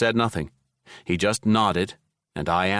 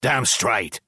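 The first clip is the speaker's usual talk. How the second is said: smug satisfaction; 3 semitones higher than usual. Acted. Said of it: "he said in satisfaction".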